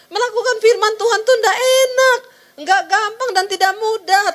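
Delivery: high laughing preacher voice. Real, not acted. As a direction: laugh through the point.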